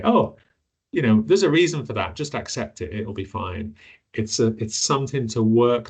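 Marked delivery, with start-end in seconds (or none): 0.0-3.7 glib dismissive. Retold or imitated. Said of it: "it would be arrogant of me to just say".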